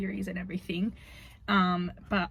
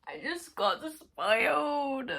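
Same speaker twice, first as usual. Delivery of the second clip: slow stunned realisation, higher; shocked; 6 semitones higher, slower than usual. Real, not acted. Reacting to an illustration spoiler, stunned. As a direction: let the shock sink in slowly.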